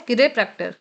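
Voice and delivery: "chiropractor" read off as ki-re-PRAK-tor; pronunciation demo. Shown as a demonstration. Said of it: "यहाँ पे देखिए लिखा है".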